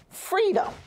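sudden high ringing call of Freedom; rallying cry. Retold or imitated. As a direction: lift 'Freedom' way up like a crowd chant. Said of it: "I want you to say".

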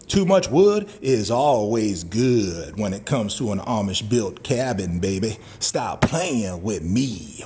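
low, slow, drawn-out growl of pleasure; low drawled catchphrase. Acted. Cowboy savouring the cabin wood for viewers, low slow drawl.

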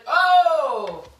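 high yelp into a laugh; oh then burst out laughing; startled laugh. Real, not acted. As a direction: catch yourself and laugh. Forgot hot pans in oven.

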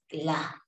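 "cla" as one single syllable, no gap between C and L; consonants sounding together. Shown as a demonstration. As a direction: run the C straight into the L in "cla". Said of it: "suenan juntas". ("cla", la c y la l suenan juntas)

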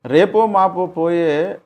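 loud, high, drawn-out read-aloud; reading scolding comment. Retold or imitated. Interviewer reading a hostile comment to the guest, loud and deliberate. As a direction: read the insult out slowly and loudly. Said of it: "వ్యతిరేకంగా తిడుతూ comment చేశారు".

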